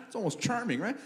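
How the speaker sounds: ordinary talk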